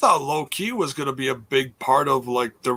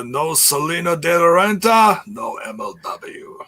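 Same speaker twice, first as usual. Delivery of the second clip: mock Latin gangster accent; 3 semitones higher than usual. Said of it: "He does not have an accent like that".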